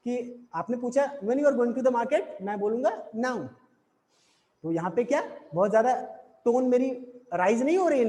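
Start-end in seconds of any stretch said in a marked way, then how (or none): 1.2-2.4 slow question with a rising end; teacher voicing the student's question, slow and rising; slow demo question. Shown as a demonstration. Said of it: "normally बता दे रहा हूँ". 3.2-3.4 now said with a falling tune; answering the student, now falling like a full stop. Shown as a demonstration. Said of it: "falling intonation है".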